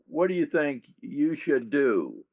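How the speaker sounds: accent the end of the question, on "you should do"; stress on the last part. Shown as a demonstration. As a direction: lean on the closing "you should do". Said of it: "I emphasize the last part".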